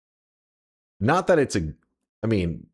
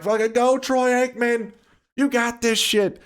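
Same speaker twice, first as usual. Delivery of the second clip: mock cheering baby; 11 semitones higher than usual.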